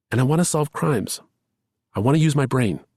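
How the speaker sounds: insisting while holding back tears; tearful. A narrator's reading. Lamb insisting to Charlie, high and tearful. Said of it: "through the tears".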